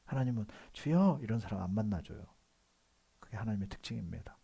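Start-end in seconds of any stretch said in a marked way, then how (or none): 0.7-1.2 a short, higher, louder call; crying out to God. Acted. Preacher shows congregation how to cry out to God, mock prayer shout. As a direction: call out to the Lord in demonstration. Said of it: "하나님께 부르짖어야 돼요".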